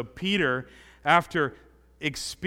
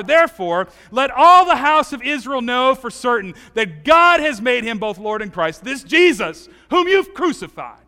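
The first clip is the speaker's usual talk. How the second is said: preaching; 4 dB louder than usual. Acted. Peter preaching in Acts.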